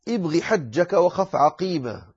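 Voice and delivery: ابغ حجك وخف عقيمة recited slowly, word by word; teacher reciting ابغ حجك وخف عقيمة slowly; slow mnemonic recitation. Shown as a demonstration. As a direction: chant the mnemonic slowly and evenly. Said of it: "مجموعة في قولك".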